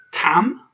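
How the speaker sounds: "tam" said with a short open a and a clear m; Russian tam. Shown as a demonstration. Teacher introducing a new Russian word to learners. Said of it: "This word here".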